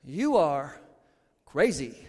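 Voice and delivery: low, flat you are crazy; a dry low pronouncement; mock verdict. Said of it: "You would say".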